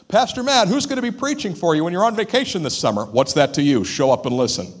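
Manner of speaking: playfully snippy pastor's retort; mock curt rebuke. Shown as a demonstration. Pastor snapping at a nosy churchgoer, mock curt. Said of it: "you'd be pretty ticked".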